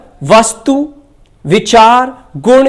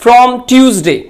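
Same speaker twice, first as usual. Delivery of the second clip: slow example sentence; much slower than usual. Shown as a demonstration. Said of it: "और अगर मैं कहूं".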